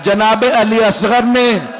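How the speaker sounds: sorrowful majlis recitation, pleading at times; lamenting recitation. Acted. Preacher telling the infant's martyrdom to mourners, lamenting. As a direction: draw the mourners into the grief.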